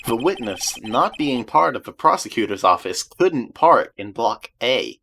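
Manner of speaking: low, measured courtroom argument; composed defence attorney. Acted. Attorney questioning Miss Starr before the judge, low and composed. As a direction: keep it low and deliberate, pausing between points.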